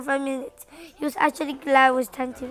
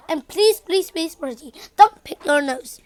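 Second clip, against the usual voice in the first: pleading; 4 dB louder than usual. Acted. Parent pleading with son.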